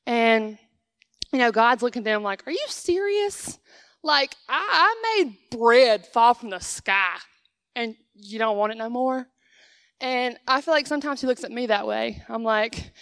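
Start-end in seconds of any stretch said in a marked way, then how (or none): 2.5-9.3 incredulous God. Retold or imitated. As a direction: play God baffled at their ingratitude. God answering ungrateful Israelites.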